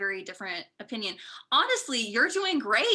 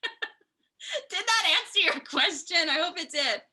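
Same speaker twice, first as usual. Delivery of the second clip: slow, laughing self-check; sheepish laugh at her own long answer; 7 semitones higher, slower than usual. Real, not acted. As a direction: chuckle through the question.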